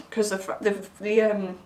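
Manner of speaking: tongue-tied, words tripping over each other; stumbling over words. Real, not acted. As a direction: trip over the words, losing the thread. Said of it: "I can't get my words out now".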